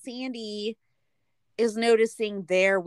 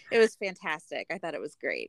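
ordinary talk

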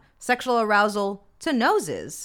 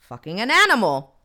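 said louder, bluntly, across the classroom; blurted out loud; 5 dB louder than usual. Retold or imitated. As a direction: blurt it out loud without thinking. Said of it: "when I said that out loud".

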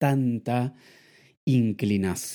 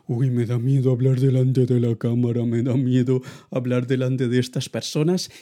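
mock nervous worry; 3 semitones higher, 6 dB louder than usual. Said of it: "preocupado simplemente porque".

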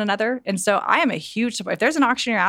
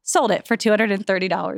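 auctioneer. Shown as a demonstration. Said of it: "I do wanna hear the auctioneering voice".

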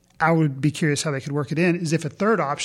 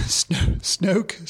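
name breaking up into a laugh; trying not to laugh; 2 semitones higher than usual. Real, not acted. Podcaster can't say a silly villain name straight, laughing. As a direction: stumble on the name through suppressed giggles. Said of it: "can't even say his name without laughing".

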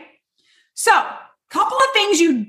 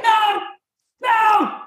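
higher, dismissive no, no; quick brush-off; 7 semitones higher than usual. Pretend. Customer waving off a store clerk, dismissive. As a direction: wave off the clerk.

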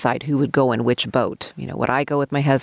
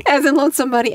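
high-pitched words through laughter; helplessly amused, pitched high; laughing; 12 semitones higher, 3 dB louder than usual. Real, not acted. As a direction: echo it while cracking up. Laughing over her own punchline.

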